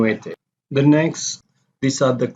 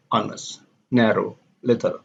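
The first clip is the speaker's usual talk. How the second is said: HON-est, NAR-row, LIT-tle; first-syllable stress. Shown as a demonstration. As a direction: stress the first syllable of "honest", "narrow", "little". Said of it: "similar to noun".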